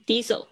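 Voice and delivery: diesel with a long ee, not die; diesel said right. Shown as a demonstration. Teacher corrects the student's diesel, dee-zel. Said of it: "声音diesel".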